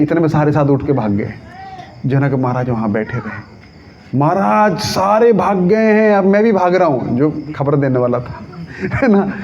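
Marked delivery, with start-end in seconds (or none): 4.2-7.2 higher, acted cry of alarm; alarmed messenger. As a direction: call out the bad news to the king. घबराया दूत भागते हुए. (घबराए दूत जैसी ऊँची पुकार)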